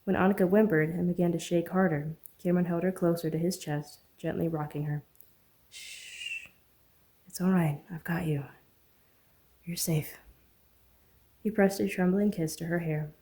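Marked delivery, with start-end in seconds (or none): 5.7-10.2 soft whispered comfort; soothing whisper. Acted. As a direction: hush her gently as you hold her. Rocking shivering woman, soothing her.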